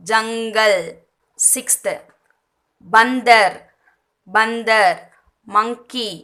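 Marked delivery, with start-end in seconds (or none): 0.1-0.8 "ஜங்கல்" with ng sounded before the g. Shown as a demonstration. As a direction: model "ஜங்கல்" as jang-gal. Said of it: "இங்குன்னு pronounce பண்றோம்".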